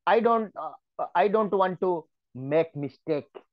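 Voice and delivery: slow example sentence. Shown as a demonstration. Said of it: "Make mistake is a collocation".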